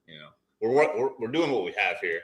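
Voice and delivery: tinny phone mic audio; tin can sound. Real, not acted. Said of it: "Sounds like you're in a tin can".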